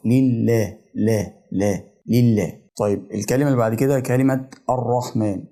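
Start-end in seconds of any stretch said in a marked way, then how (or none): 0.1-2.6 "لله" with an open laa; fatha on the lam. Shown as a demonstration. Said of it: "علامة الفتحة بتفتح الحرف".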